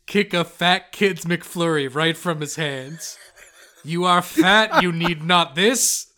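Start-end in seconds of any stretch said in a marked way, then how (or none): 3.8-6.1 stern mock proclamation. Plague doctor scolding a kid.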